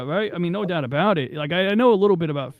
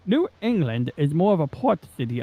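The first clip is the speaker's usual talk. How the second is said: accidental English accent. Real, not acted. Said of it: "I read that in English accent".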